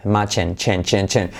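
"Imagine" ending in a crisp English j, "chen"; teacher isolating the "chen" ending of "Imagine". Shown as a demonstration. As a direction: stress the middle of "Imagine", reduce the end to "chen". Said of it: "sobre todo la letra clave G J".

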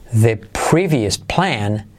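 very slow, each word separate; slow it right down for learners; teacher modelling slowly; slow demo. Shown as a demonstration. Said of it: "semiclave T H".

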